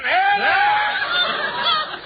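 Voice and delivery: high-pitched comic squeal; comic squeak. Acted.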